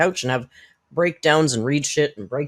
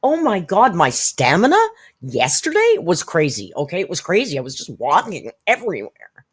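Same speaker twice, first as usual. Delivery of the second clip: hammed-up gushing, higher at the start; mocking imitation of Amber; 4 semitones higher, 5 dB louder than usual. Commentator mocking Amber's bragging, hammed-up gushing voice. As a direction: gush like the woman being mocked. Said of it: "she talks about how fucking great she's".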